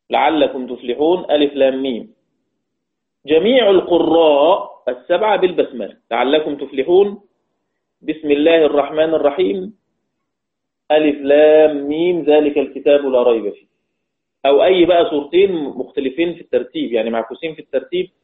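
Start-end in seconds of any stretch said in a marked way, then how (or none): 0.1-2.1 measured chanted recitation of the verse ends; Quran recitation. Shown as a demonstration. Teacher demonstrating how surahs are joined, recited. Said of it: "آل عمران بالبقرة". 6.1-13.7 Quran recitation. Shown as a demonstration. Teacher reciting the basmala between surahs for students, chanted.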